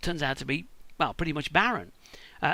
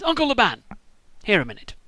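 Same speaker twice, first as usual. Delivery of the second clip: Jacob calling out; 5 semitones higher than usual. Acted. Jacob calls his uncle over.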